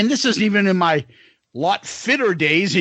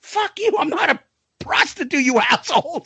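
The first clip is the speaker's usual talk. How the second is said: mock pickup and slap-down; 7 semitones higher than usual. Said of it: "being that, like".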